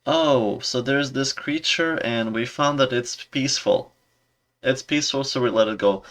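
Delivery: lightly voiced, cheerful mock captain; captain's log. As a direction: read the log as if blissfully naive. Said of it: "a captain's log recording that literally says".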